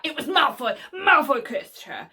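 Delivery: spout it out suddenly, loud; blurted accusation. Acted. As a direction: imitate a hot-headed boy blurting blame. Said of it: "he spouts just like that".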